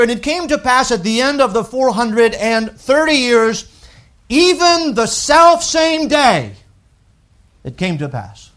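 self same day drawn out high and slow; slow right down on self same day; dramatic scripture reading. Shown as a demonstration. Preacher reading the prophecy, slowing on self same day. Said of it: "He says here".

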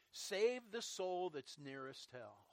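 very slow evangelist's catchphrase; Oliver Green. Retold or imitated. Preacher quoting the evangelist's closing line, slow mild impersonation. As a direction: draw the words out like an old-time evangelist. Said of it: "he would say that all the time".

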